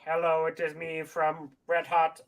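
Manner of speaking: lightly voiced robot; a hint of a stiff robot. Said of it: "I am the robot".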